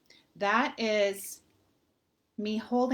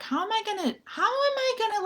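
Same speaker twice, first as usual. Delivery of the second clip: much higher, fast panicky voice; high-pitched anxious fretting; panicked self-talk; 12 semitones higher, much faster than usual. Retold or imitated. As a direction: rattle it off in a rising panic. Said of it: "I was like".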